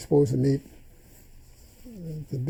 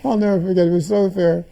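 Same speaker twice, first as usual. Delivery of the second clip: laughing through the words, louder; 5 semitones higher, 8 dB louder than usual. Real, not acted. Recalling his mother's answer, laughing as he speaks. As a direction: chuckle it out, still amused.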